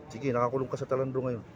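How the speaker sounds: normal talking voice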